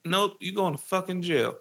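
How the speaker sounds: a hint of the gloating father; mocking dad. Dad telling his kid he's going to jail, mild mock voice. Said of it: "it's like".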